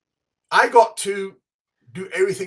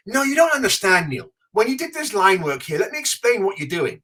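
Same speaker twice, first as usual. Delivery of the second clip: excited; 5 semitones higher, 4 dB louder than usual. Retold or imitated. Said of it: "I'm like".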